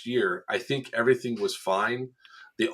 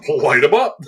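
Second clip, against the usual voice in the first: loud, punchy call to open fire; hammed-up retold shout; mock shout; 5 semitones higher, 10 dB louder than usual. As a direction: bark the order across the field.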